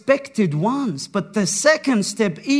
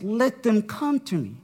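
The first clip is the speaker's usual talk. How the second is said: tender; 5 dB quieter than usual. Retold or imitated. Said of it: "he tenderly calls the children in".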